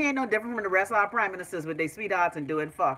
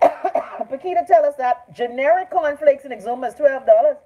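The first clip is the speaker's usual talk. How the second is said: outraged; 5 semitones higher, 9 dB louder than usual. Real, not acted. Outrage at cornflake price.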